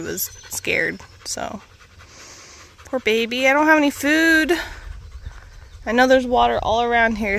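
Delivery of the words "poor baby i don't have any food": cooing sympathy. Real, not acted. Cooing to the stray cat.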